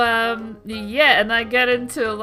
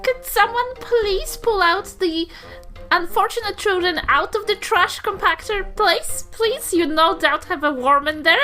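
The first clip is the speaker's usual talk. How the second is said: pleading granny; 6 semitones higher than usual. Acted. Granny pleads for her children's release.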